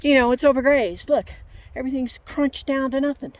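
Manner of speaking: retold angry complaint. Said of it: "Paul says".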